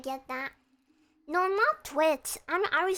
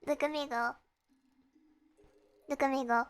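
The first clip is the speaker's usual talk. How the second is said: talking while spinning in a chair; spinning in office chair; faster than usual. Real, not acted. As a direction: laugh it out mid-spin. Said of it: "I'm spinning on my chair".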